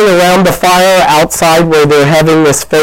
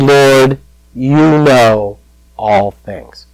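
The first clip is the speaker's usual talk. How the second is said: grieved; much slower than usual. Acted. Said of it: "Peter was grieved".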